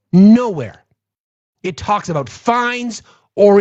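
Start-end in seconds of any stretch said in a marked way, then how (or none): 0.1-0.8 "Nowhere." said louder, hammered home; louder emphatic repeat. Real, not acted. Ranting host repeats "Nowhere." louder at his audience. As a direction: slam the word "Nowhere." down. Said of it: "repeated louder".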